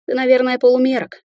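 plain reading voice

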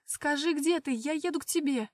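loud, high, near-screaming; voice breaking into a shout. Acted. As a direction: godmother on the verge of yelling. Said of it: "Голос крестной срывался на крик". (крестная почти кричит в трубку)

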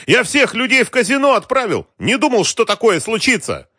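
very high-pitched, panicky outburst; desperate cry. A narrator's reading. Boss realizing he has no men left, desperate. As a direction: wail it out in despair. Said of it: "в отчаянии крикнул Георгий".

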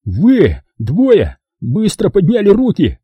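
Kelly yells at the movers; yelling. Acted. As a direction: scream the order, fed up. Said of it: "завопил он".

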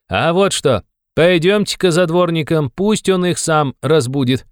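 high, eager youthful proposal; young man. A narrator's reading. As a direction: propose a plan briskly in a high voice. (высокий молодой голос, с азартом)

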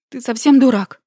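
громкий упрёк сквозь рыдания, выше; выкрикни сквозь слёзы; прорыдать. A narrator's reading. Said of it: "Прорыдала я ему в плечо". (громко, сквозь рыдания)

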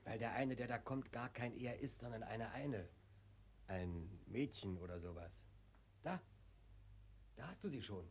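river's hushed aside; hushed warning. Acted. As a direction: whisper it before she arrives. Hushed warning someone comes.

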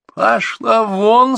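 high, loud, slow tearful outburst; crying out in anger. Acted. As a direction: throw her out, half sobbing. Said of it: "снова заплакала мама".

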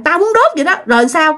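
high, pig-headed retort; acted obstinate man; stubborn insistence. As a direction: dig your heels in. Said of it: "cái tính ổng ngang á".

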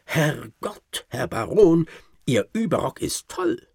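high, loud panicked yell from a frightened servant; a startled manservant shouting for his master; servant's alarmed cry. Acted. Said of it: "durch meines Johanns Geschrei".

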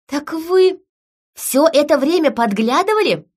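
high, sharp indignant question; she's furious at being spied on, voice up high; angry. A narrator's reading. Heroine confronting Gregory about spying through the mirror, angry and indignant. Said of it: "От злости у меня даже".

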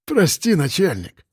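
a sheepish plea, voice jumping high; a petty thief caught out; guilty sniffling drunk. Acted. Pistons sniffs guiltily before the cop, sheepish plea. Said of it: "шмыгнул носом Пистон".

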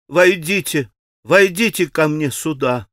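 insistent, imperious; commanding call. Acted. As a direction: order him in at once. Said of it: "Настойчиво и повелительно закричала она".

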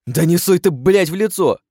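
high loud outraged yell. Acted. Bound chief to the orc, a high outraged yell. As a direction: recoil and shout. Goblin pushed into face.

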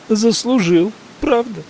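high, mocking challenge; scornful question. A narrator's reading. Maggie mocking the narrator's excuse, high scornful question. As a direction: throw his words back at him.

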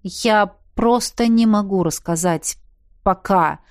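slow, drawn-out hesitant words; a lightly drawn-out evasive reply. Acted. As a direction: stretch the words out reluctantly. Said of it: "протянул мужчина".

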